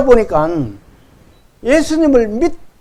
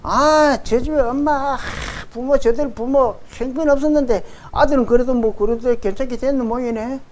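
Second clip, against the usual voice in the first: imitated village gossip, higher-pitched; belittling gossip; 4 semitones higher, 4 dB quieter than usual. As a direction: run someone down under cover of small talk. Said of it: "깎아내리려고 합니다". (깎아내리는 동네 수군거림 흉내)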